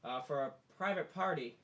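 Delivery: loud, acted brush-off; doorkeeper turning away visitor. Innkeeper to visitor at the door, loud apology. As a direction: call it out through a cracked door. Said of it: "sees somebody standing there and goes".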